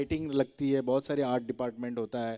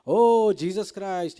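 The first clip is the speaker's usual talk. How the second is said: knowing exclaim; 5 semitones higher, 9 dB louder, much slower than usual. Retold or imitated. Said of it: "producer replies".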